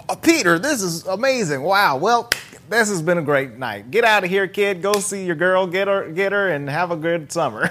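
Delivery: Beck's voice. Retold or imitated. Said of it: "and he's like".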